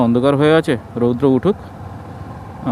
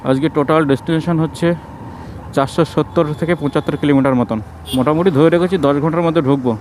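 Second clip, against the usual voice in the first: muffled behind a mask; through a face mask; 4 semitones lower, 3 dB quieter than usual. Real, not acted. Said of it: "কারণ মুখে mask পরা আছে".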